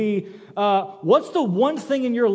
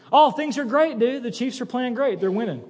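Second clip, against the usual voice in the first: giddy fan; 5 semitones higher than usual. Retold or imitated. Bobby's giddy reply about Chiefs.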